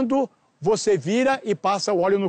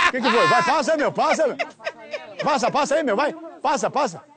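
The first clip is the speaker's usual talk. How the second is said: higher, pushy director urging the actor on; mock frantic urging; 5 semitones higher than usual. Director pressing the hesitant actor to start, higher and urgent. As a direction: hurry him, half laughing, higher pitched.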